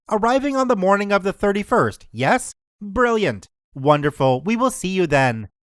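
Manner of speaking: polite hotel receptionist; smooth, helpful desk clerk. Retold or imitated. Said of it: "my best receptionist voice".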